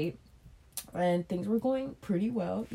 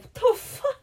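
retold disbelief; 4 dB louder, slower than usual. Shocked when she won't stop.

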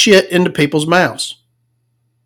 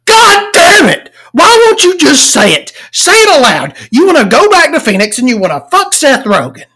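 high, exasperated reenacted yell, easing toward the end; screaming at TV; 9 semitones higher than usual. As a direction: yell it at the screen in mock outrage. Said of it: "I'm screaming at".

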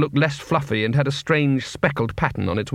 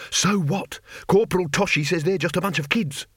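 soldier voice; 6 semitones higher than usual. Acted.

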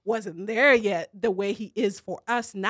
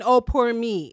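mock self-pity; 5 dB louder than usual. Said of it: "Humility doesn't mean".

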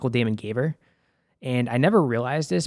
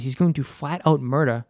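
Boston accent slip. Real, not acted. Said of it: "that was my Boston accent coming out".

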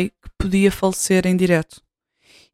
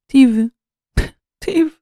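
laughing; 6 semitones higher than usual. Real, not acted. Laughing at hour spent editing.

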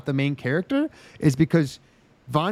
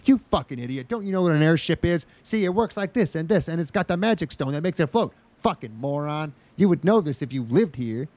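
mocking exposition character. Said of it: "they could be like".

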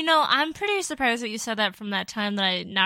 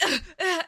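squeamish grunts; 7 semitones higher, faster than usual. Retold or imitated. Re-enacts squeamish reaction to spider.

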